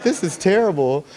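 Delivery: high, loud mock wail; retold bawling. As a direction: imitate a distraught, bawling mom. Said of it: "She's just, like, bawling".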